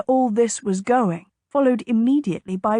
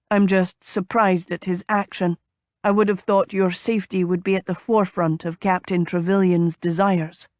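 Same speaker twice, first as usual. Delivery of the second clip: lightly voiced man, slightly lowered; courteous gentleman suitor. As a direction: speak as a polite suitor, mildly surprised.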